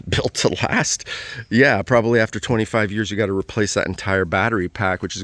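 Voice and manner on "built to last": mocking echo of the slogan, pitched up with a laugh; sarcastic. Shown as a demonstration. Mocking the hybrid's built-to-last claim, sarcastic with a laugh. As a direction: say it with a scoffing laugh, raised.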